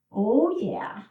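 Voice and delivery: breathy little oh yeah, half to herself; whispered aside. Real, not acted. Instructor to herself mid-stretch, whispered. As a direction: whisper it under the move.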